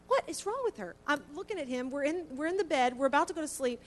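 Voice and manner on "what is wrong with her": alarmed question. Retold or imitated. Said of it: "And I said".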